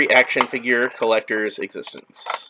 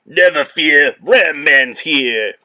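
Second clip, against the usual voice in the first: heroic announcement; 5 dB louder, much slower than usual. Acted. Ram Man hero line.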